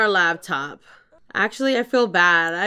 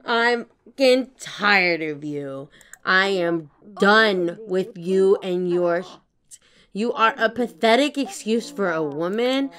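slow insulting rant. Pretend. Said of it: "gonna insult her".

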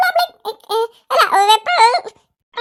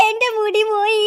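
crying; 4 dB quieter than usual. Acted. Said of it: "മാം, ഇങ്ങനെ കരയാതെ".

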